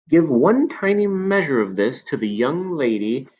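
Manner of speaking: put-on a knowing old shopkeeper confiding; old man. Old man describes potion.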